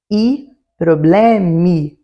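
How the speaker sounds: "i problemi" spoken slowly and clearly in Italian; teacher slowly says "i problemi"; Italian plural example. Shown as a demonstration. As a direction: model "i problemi" slowly for the learners. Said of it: "Vamos ver uns exemplos?".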